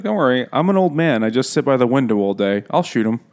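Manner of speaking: lightly voiced old man promising to shoot; mock old man. Imitating Tom reassuring the woman, mock old man voice. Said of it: "But he's like".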